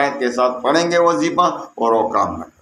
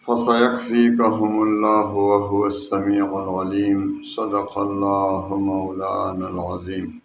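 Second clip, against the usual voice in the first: formal Arabic recitation; 3 semitones lower than usual. Acted. Opens with Arabic invocation and verse.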